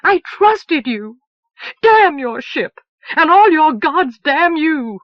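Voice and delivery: slow, loud, high cursing; bitter curse. Acted. Moon to Elsevier who deceived her: slow loud bitter curse. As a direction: spit the curse slowly.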